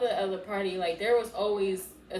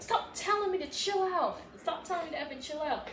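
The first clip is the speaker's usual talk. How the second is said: retold scolding; 7 semitones higher than usual. Retold warning while grabbing his face.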